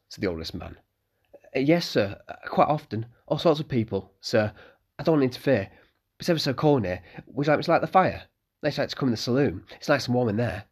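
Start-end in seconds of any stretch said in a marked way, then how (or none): 1.6-10.6 put-on boyish, eager voice a bit higher; eager young innkeeper's son; young Malcolm.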